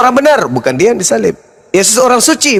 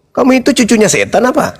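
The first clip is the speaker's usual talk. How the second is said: fast, higher, chuckling jibes; laughing taunt; 5 semitones higher, faster than usual. Real, not acted. Preacher mocking his opponent as a devil, laughing. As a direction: tease him with a grin.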